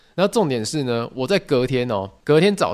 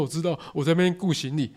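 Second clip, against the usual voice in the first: resigned compliance; 3 semitones higher, 4 dB quieter than usual. Retold or imitated. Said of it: "我说".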